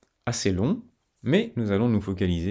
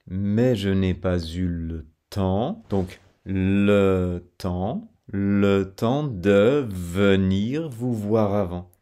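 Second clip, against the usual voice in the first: slow linking demo; slower than usual. Shown as a demonstration. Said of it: "enchaînement consonantique".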